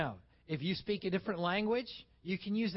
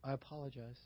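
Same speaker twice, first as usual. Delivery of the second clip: wrong way; 6 semitones lower, 9 dB quieter than usual. Shown as a demonstration. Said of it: "Do not say".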